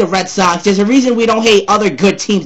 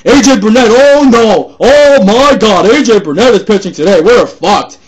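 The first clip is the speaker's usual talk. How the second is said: mock panicking fan; 4 dB louder than usual. Mocking panicking Yankee fans.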